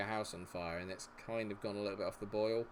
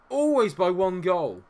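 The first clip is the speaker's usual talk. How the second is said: loud, high, slow outraged complaint; exasperated shout; 9 semitones higher, 13 dB louder, slower than usual. Real, not acted. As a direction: drag it out in fed-up anger. Angry complaint about losses.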